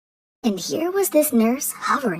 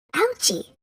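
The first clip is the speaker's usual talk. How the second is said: imitating a child's cry; 9 semitones higher than usual. Fairy imitates child calling.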